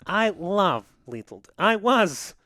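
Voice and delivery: mock Russian, articles dropped; hammed-up Russian coach making his case; bad Russian accent. Coach explaining his love of small defensemen, mock Russian accent. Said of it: "the worst Russian accent".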